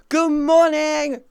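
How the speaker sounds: high, slow, drawn-out good morning; stretched good morning. Real, not acted. Streamer greeting chat again, slow and high. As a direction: stretch it long and high like a yawn-song.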